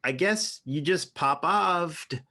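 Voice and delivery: "offed" said with a V, like "ovved"; F turned to V. Shown as a demonstration. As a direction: stretch it slowly, "offed" voiced as "ovved". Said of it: "turned the F's into a V".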